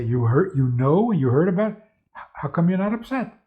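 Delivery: stunned disbelief. Retold or imitated. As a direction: lightly act out baffled friends. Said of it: "they were stunned".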